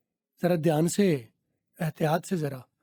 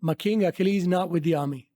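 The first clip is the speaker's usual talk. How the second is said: slow teaching read; much slower than usual. Shown as a demonstration. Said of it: "repeats line slowly".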